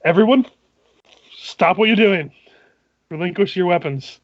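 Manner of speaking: commanding guard. Acted. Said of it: "It's like".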